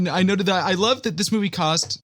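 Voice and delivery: ordinary talk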